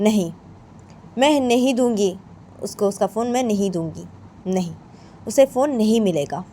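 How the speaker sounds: emphatic refusal in measured, broken phrases; firm, stern mother. Acted. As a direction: lay down the rule, pausing between phrases. Mother firmly refuses to return phone. (सख्ती से मना करती माँ)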